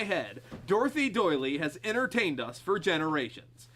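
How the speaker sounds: smooth TV pitchman read; spokesperson voice. Acted. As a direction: sell it like a TV spokesman. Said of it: "And this is Jonathan".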